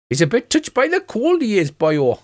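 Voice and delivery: high, lilting mock-Welsh dwarf; hammed-up Welsh singsong; Welsh accent. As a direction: put on a broad Welsh accent. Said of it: "I should be doing a Welsh accent".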